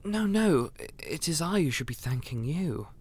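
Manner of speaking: high flustered "no, no" that settles; flustered protest. Acted. Ambrose waving off the guest's thanks, flustered. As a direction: brush off the thanks, taken aback.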